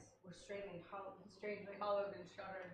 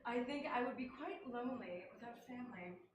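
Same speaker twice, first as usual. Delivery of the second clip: put-on English accent. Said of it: "In an English accent".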